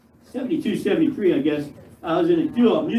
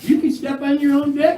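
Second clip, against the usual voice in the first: high, disbelieving ask; incredulous question; 9 semitones higher than usual. Retold or imitated. To his friend on the phone, a high incredulous question. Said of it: "I said".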